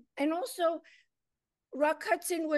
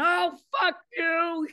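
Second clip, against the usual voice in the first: slow, louder, higher mock snap; retold brush-off; 5 semitones higher, 5 dB louder than usual. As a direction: spit it out slowly in a replayed huff. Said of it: "I went".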